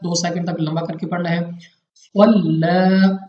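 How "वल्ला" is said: वल्ला said slowly and drawn out; वल्ला drawn out like in recitation; recited demo. Shown as a demonstration. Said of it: "स्वाद मुस्तारिया में से खींच कर यानी मोटा करके पढ़ेंगे".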